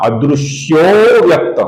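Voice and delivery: अदृश्यो व्यक्त with a slightly lengthened joining; Sanskrit pronunciation demo. Shown as a demonstration. Teacher showing viewers the avagraha pronunciation, carefully drawn out. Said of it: "इसका उच्चारण होगा".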